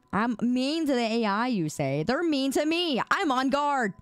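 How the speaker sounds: hammed-up defensive whine about being picked on; put-on indignation; mock wounded. Playful complaint about mean AI.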